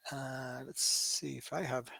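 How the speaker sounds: barely voiced, reading the screen to himself; whispered to himself. Real, not acted. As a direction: breathe the word as a private aside. Muttering to himself, checking chat.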